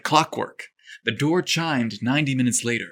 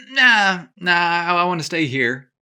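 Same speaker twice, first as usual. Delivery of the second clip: hasty reply; 6 semitones higher, 4 dB louder than usual. Acted. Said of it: "Parker hastily replied".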